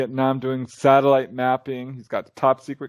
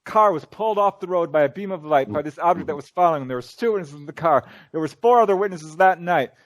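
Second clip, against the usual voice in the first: firm retort, pitched higher; replaying a firm put-down, higher; retold comeback; 4 semitones higher than usual. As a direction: shut the heckler down hard. Shutting down the heckler.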